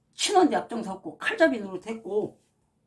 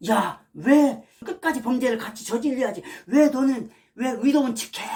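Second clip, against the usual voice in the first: louder, higher angry taunt; mock accusing fake pastors; 3 semitones higher, 4 dB louder than usual. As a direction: fake pastors scolding a traitor, loud mock anger. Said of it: "하면서".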